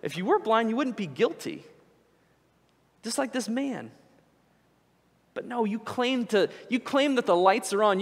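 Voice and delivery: a hint of Jesus confronting them; voicing Jesus. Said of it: "And he's going".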